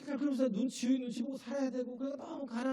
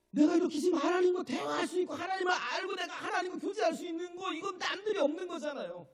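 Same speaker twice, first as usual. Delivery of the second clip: high, loud rapturous testimony; joyful exclamation; 8 semitones higher, 5 dB louder than usual. Acted. Poet exclaiming thanks to God, high and loud. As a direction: burst out in grateful wonder, pitched high. Poet voiced in grateful realization.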